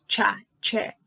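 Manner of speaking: "tchá, tché" with a crisp tch onset; CH sound. Shown as a demonstration. Teacher shows learners the CH, tch in "tchá, tché". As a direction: sound out "tchá, tché" as two separate syllables. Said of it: "tem que ter o som assim de".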